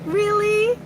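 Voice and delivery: high, loud startled question; surprised really. Real, not acted. Streamer reacting in shock to a viewer's message, high and loud. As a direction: caught off guard by the news, blurting it out.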